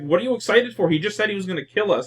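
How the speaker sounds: mock disbelief. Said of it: "everyone's like".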